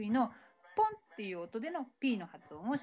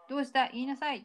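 mild doctor voice; 5 semitones higher, 5 dB louder than usual. Retold or imitated. Psychiatrist prompts silent Mickey.

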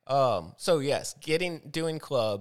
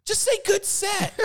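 much higher, scolding mock shout; retold telling-off. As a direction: snap it like you're scolding him again. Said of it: "I went off".

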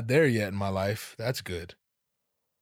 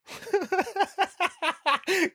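very high-pitched laugh; high cackle; 3 dB louder than usual. Retold or imitated. Podcaster imagining the clerk as guest, high cackle.

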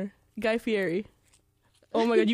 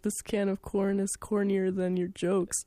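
mock Gordon Ramsay; 3 dB quieter, slower than usual. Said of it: "Gordon Ramsay would be like".

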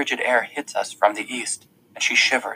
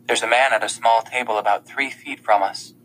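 plain reading voice

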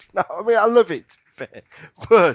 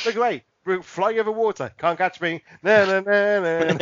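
put-on childish na-na tease; mock them, playground style; taunting singsong. Pterodactyls taunting over water.

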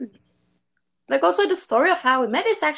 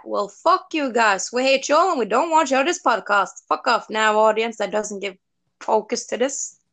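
mock angry rant; 5 dB louder than usual. Mock rant at inattentive audience.

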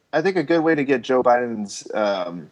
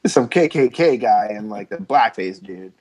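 lightly voiced politician explaining away a photo; politician's excuse; 3 semitones higher than usual. People in politics excusing old photos, lightly mimicked. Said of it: "these fucking people in political".

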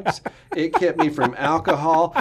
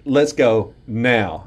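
deep stern voice; 3 semitones lower, much slower than usual. Retold or imitated. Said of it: "he put some bass in his voice".

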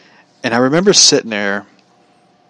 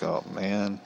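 muttered to self; 15 dB quieter than usual. Retold or imitated. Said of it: "I'm just sitting there going like".

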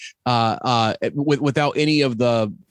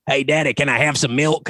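daughter's Southern voice; 2 semitones higher than usual. Retold or imitated. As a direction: imitate a daughter trying out a Southern accent. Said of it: "she loves the Southern voice".

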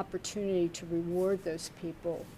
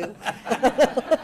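big burst of laughter; loud laugh; 7 semitones higher, 12 dB louder than usual. Real, not acted. Laughing at auction joke.

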